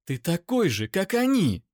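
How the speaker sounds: high, loud, spat in his face; contemptuous scream in his face. Acted. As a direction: spit the words at him. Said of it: "выплюнула Эйра мне в лицо".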